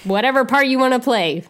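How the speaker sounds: usual speaking voice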